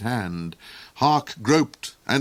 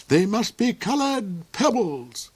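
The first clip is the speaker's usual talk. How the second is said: villain duke voice; 11 semitones higher than usual. A narrator's reading.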